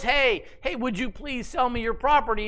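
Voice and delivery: high, sing-song mock politeness; mock polite. The preacher mocks Ahab's polite ask to Naboth in a sing-song voice. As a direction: parody a timid request.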